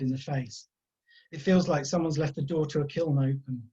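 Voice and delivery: calm, measured storytelling voice; story narration. A narrator's reading. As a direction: read it like an audiobook. Reading his novel aloud.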